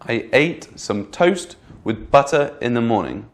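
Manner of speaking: "toast" and "butter" lifted and lengthened; teacher reads the stressed sentence. Shown as a demonstration. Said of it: "in bold are the more stressed words".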